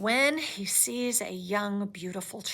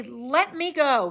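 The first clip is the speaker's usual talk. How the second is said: louder, slow plea; mild cry; 3 semitones higher, 6 dB louder, slower than usual. Acted. Child William struggling against the creature, mild cry. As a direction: cry out to be let go. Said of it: "he cried".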